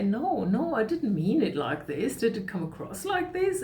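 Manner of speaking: high, lilting mock denial; surprised denial. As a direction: act out an innocent protest, rising high on the question. Acts other person's surprised denial.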